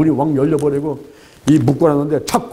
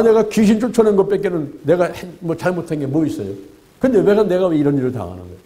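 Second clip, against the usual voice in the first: imitating a bitter grumble, higher and rising; complaining; 6 semitones higher than usual. Preacher voicing a suffering believer, mock complaining. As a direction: whine it like someone blaming God. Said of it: "이러면서 막 원망, 불평하고".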